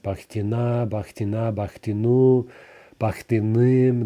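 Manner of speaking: Bakhtina, Bakhtinu, Bakhtinim with the stress on each ending. Shown as a demonstration. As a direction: hit every case ending. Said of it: "the ending is gonna be stressed".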